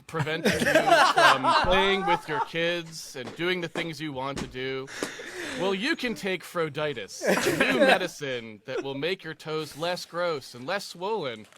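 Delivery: mock cheery TV drug commercial; pharma ad voice. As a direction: sell it like a cheesy ad. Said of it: "After this ad break".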